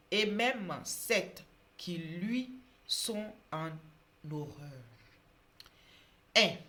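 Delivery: loud, slow, solemn proclamation; Bible reading. Acted. Preacher reading a proverb to viewers, loud solemn reading. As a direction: read scripture out with weight, pausing between phrases. Reads Bible verse aloud.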